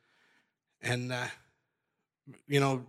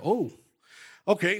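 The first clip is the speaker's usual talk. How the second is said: higher, louder mock startled okay; 7 semitones higher, 4 dB louder than usual. Retelling his shock at a confession, mock startled. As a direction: play the jolt of surprise, then cover it.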